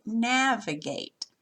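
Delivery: "navigate" with NAV stressed, slowly; slow repeat of "navigate", NAV stressed; stress on first syllable. Shown as a demonstration. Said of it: "the first syllable is the loudest".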